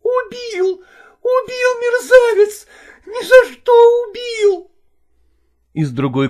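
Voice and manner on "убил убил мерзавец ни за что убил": much higher, louder crying wail; a beaten woman crying out; wailing wife. Acted. Wife wailing at her husband after the blow, high, loud and crying.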